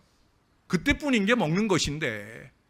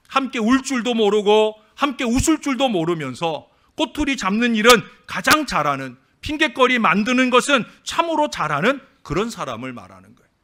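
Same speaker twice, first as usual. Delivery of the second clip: louder, higher preaching at full force; 7 semitones higher, 6 dB louder than usual. Acted. Pastor rebukes fault-finders to the church, preaching loud. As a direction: drive the rebuke home to the pews.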